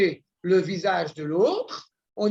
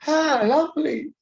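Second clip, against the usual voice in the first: high, loud, drawn-out delight; imitated delighted grandmother; 7 semitones higher, 5 dB louder, slower than usual. Wife's grandmother answering news of a death, imitated cheery delight. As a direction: mimic an old relative's misplaced enthusiasm. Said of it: "elle me dit, ah".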